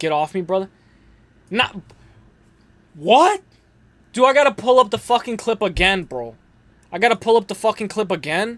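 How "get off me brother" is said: mock annoyed, salty, irritable tone. Retelling how a losing fighter reacted: imitating a salty fighter. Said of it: "he was probably salty, like".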